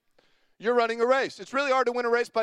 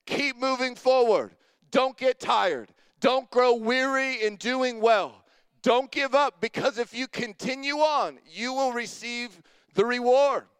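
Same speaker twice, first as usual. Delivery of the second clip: firm push. Retold or imitated. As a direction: drive each command home. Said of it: "slap in the face that was like".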